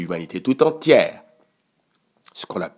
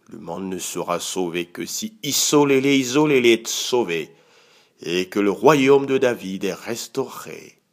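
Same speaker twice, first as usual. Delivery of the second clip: fervent prayer. Real, not acted. Pastor praying for God's people, fervent and pleading. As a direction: pray aloud, rising and falling with urgency.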